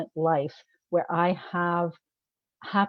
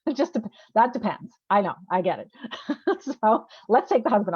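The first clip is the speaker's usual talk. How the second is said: laughing; 3 semitones higher, 4 dB louder than usual. Real, not acted. Laughing at her own joke.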